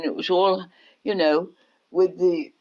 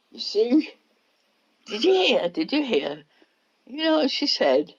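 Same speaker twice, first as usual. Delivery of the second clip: retold child boasting; 6 semitones higher than usual.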